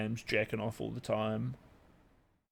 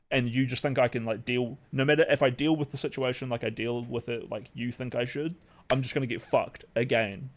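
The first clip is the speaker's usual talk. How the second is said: heated rant. Retold or imitated. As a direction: vent it all out, raising your voice. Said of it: "You triggered, you triggered the, the rant".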